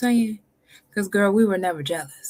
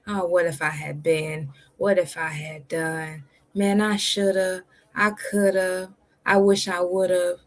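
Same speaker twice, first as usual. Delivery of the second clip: mock regret; slower than usual. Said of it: "don't live your life like that".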